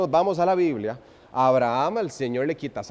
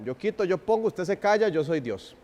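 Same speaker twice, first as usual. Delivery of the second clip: higher, mock-stern voice of an arbitrary God; 4 semitones higher than usual. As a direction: lightly voice a God who rules without feeling. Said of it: "a veces lo escuchamos así".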